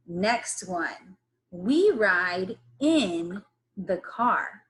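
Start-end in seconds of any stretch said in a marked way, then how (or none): 1.5-4.6 "We ride in the car." stretched out slowly; slow modelling read. Shown as a demonstration. Teacher modelling a sentence slowly for kids.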